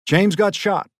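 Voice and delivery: high, loud cry of shock; crying news of a shooting to her mother. A narrator's reading. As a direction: blurt it out through tears. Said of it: "she was crying".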